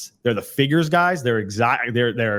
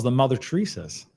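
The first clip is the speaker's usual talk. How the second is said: softer, sincere voice; 4 dB quieter than usual. Shown as a demonstration. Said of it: "your voice changed".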